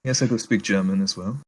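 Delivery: put-on English with a German accent. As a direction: answer politely in a German accent. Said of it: "you do the accent of that".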